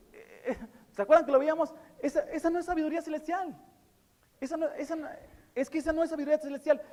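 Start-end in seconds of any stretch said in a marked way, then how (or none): 2.0-6.8 high, pressing insistence; fervent preacher repeating himself; emphatic insistence. Real, not acted. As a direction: drive the point home hard. Preacher insisting on his point.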